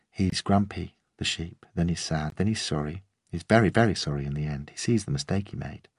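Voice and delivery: a hint of a small girl earnestly recounting; gently voiced five-year-old; little girl telling a story. Scout retells her play.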